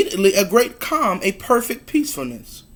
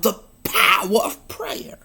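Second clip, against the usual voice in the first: hushed ending; 5 dB quieter than usual. Acted. Preacher's refrain ends hushed.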